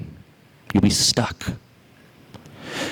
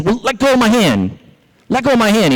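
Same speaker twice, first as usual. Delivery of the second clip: high-pitched, indignant demand; storybook outrage, voice pitched up; angry rabbit; 10 semitones higher than usual. Acted. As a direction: act out a stuck rabbit demanding release. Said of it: "He's getting furious".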